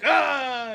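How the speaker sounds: long groan on getting up; retold groan. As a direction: groan like a drunk being roused. Reluctantly getting up after being kicked.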